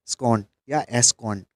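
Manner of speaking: स्कॉन said slowly as एस कॉन; split into S-CON. Shown as a demonstration. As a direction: break स्कॉन into एस and कॉन, slow. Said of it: "ऐसे करके याद कर लेंगे अपन". (स्कॉन को धीरे से एस कॉन बोलो)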